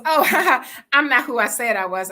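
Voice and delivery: high, loud nervous laughter; imitating a caught liar's laugh. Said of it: "she goes".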